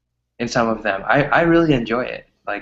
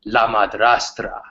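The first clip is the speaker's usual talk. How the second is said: slow, lightly voiced soap opera trailer; a hint of a melodramatic TV promo; dramatic announcer; slower than usual. Mocking a Spanish telenovela advert, slow and theatrical. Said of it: "it's so dramatic".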